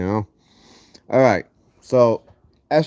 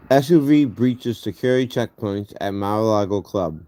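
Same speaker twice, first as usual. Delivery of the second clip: gauze in mouth. Real, not acted. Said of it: "That's the reason I sound funny".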